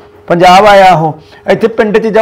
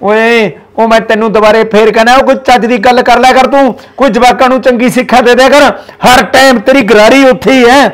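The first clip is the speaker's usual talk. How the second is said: higher, louder scolding; heated rebuke of his wife; angry scolding; 5 semitones higher, 4 dB louder than usual. Acted. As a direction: scold her hard, voice raised. Father-in-law scolds wife.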